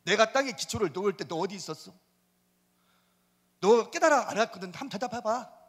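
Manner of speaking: paraphrase as a demanding God; everyday-speech version of the verse; God taunting in plain speech. Shown as a demonstration. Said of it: "더 대답해봐".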